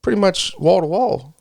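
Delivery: talking while chewing gum. Real, not acted. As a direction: speak around a wad of gum. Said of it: "Stop chewing that gum in the mic".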